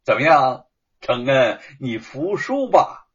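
gleeful, triumphant gloating. Acted. Shen Kun gloating at his friend, gleeful. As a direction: crow over winning the argument. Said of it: "沈坤顿时就高兴起来了".

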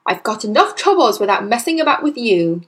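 harried dad's scolding; snapping. Acted. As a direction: grumble sharply at a child. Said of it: "the father snapped".

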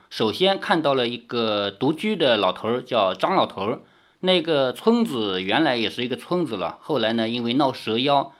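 steady storyteller reading a novel aloud; story narration. A narrator's reading. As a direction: tell the tale evenly to listeners. Reads novel chapter aloud.

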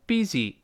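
"busy" said the way learners should avoid; wrong pronunciation of busy. Shown as a demonstration. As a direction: demonstrate the mistaken reading of "busy". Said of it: "注意不要读busy". ("busy"的错误读法示范)

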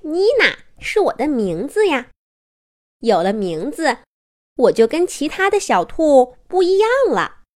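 a hint of a pleased little rabbit; proud toy rabbit. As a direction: explain your name with a touch of pride.

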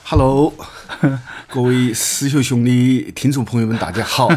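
greeting in Chengdu Sichuan dialect; Sichuan accent. Shown as a demonstration. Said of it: "就用四川方言、成都话给大家打个招呼".

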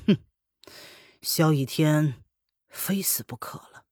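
slow, whispered death threat; menacing whisper. Acted. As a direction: breathe the threat out slowly. (阴冷低语)

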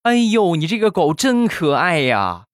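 high-pitched, hammed-up doting mother; gushing mom. Mom endlessly praising the golden retriever, high gushing delight. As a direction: gush over a dog in a put-on high voice. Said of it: "我妈对这个金毛赞不绝口".

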